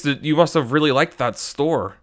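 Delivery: tiny puckered mouth; sucked in cheeks. Shown as a demonstration. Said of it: "talk like this with a very small mouth".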